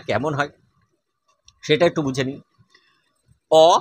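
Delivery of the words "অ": অ clipped very short; অ খুব ছোট করে. Shown as a demonstration. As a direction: say অ as a brief short vowel. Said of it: "খুব হর্ষ".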